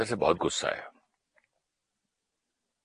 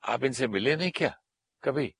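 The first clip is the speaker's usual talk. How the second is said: higher, surprised questioning voice; a hint of surprise; neighbour asking; 4 semitones higher than usual. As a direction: raise the pitch as a curious neighbour. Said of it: "बोले".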